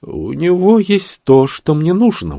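smiling reply. Acted. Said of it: "улыбнулась в ответ ведьма".

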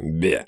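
low grunt of disgust; low, quick noise of revulsion; disgusted "beh". Acted. Hero disgusted by rough lips, low "beh".

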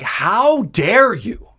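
high, very drawn-out mock outrage; retold fury. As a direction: act out indignation, stretching every word. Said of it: "He was furious".

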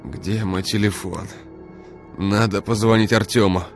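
moaning. Acted. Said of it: "простонал Игорь".

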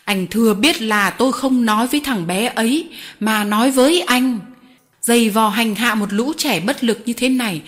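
loud, emphatic reproach; stern, forceful. Acted. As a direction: press each word hard against him. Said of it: "Cụ chủ tôi dằn mạnh".

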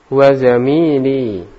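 "zamili" with a long, drawn-out "mi"; long vowel. Shown as a demonstration. Teacher models the phrase for a student, long vowel in "zamili". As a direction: stretch the middle of "zamili" slowly. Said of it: "Yaminnya panjang".

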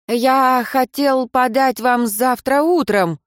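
a flustered underling making excuses; nervous excuse. A narrator's reading.

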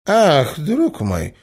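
delighted. A narrator's reading. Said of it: "закричал князь в восторге".

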